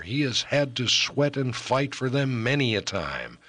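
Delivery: put-on warning young woman. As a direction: warn him off, fond but fearful. Voices Melangell warning Ellis.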